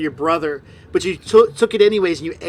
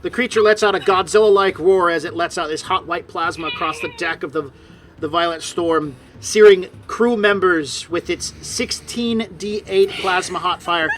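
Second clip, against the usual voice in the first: emphatic, dramatic scene-setting; game master narration; 3 dB louder than usual. A narrator's reading. Game master describing a dragon attack to players, dramatic narration.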